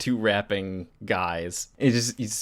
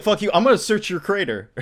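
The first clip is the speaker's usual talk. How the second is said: higher and louder, spitting it at him; mock snarl; 8 semitones higher, 5 dB louder than usual. Host voicing Gupta to Electric Gore, mock snarl. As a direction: play the bully brushing off a plea.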